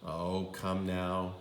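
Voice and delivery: calm her down gently; tender reassurance; soothing father. Acted. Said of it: "said her father".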